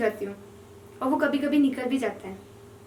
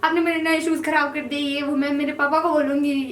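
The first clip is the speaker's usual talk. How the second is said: mock outburst at the boy who stepped on her shoes; angry retort; 4 dB louder than usual. Girl snapping at the older boy over her new shoes, mildly angry. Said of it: "मुझे गुस्सा आया".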